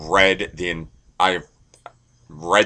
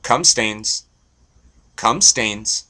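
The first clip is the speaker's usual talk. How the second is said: higher, punchy dog-calling voice; 4 semitones higher, 3 dB louder, much slower than usual. Pretend. Owner calling his new retriever, mock dog call. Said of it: "so that every time I call him".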